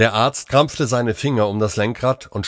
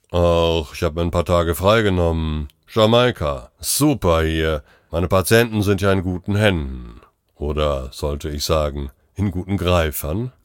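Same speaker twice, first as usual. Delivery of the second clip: easygoing holiday voice, pitched a bit low; relaxed, untroubled joking; laid-back colleague; 3 semitones lower than usual. Acted. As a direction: chat lazily from a beach. Colleague lounging in Jamaica.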